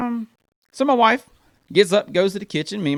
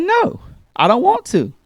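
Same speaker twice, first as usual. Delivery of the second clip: put-on whiny child refusal; 10 semitones higher, 5 dB louder, slower than usual. Daughter refuses the chore.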